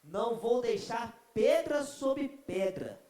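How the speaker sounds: a lightly voiced tyrant vowing destruction; mock ruthless conqueror; Babylonian conqueror. Preacher voices Babylonian empire.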